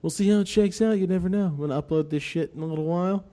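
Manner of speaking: game show host voice. Pretend. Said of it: "like a game show host voice".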